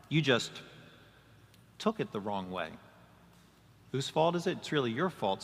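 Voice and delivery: mock condescending non-apology; blame-shifting. Pastor voicing the blamer to the hurt person, condescending. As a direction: hand the blame back with a sneer. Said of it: "It means".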